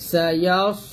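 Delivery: "সায়াস" ending on a heavy, held s; thick sad. Shown as a demonstration. Teacher reminds of the heavy letter, thick "সায়াস". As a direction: fill the mouth on the last s of "সায়াস". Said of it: "সদ মোটা করবেন".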